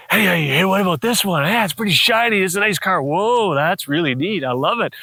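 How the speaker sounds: lilting, sing-song delight over a toy; playful enthusiasm. Retold or imitated. Dad admiring his little boy's toy trucks, playfully enthusiastic. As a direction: play along admiringly with a small child.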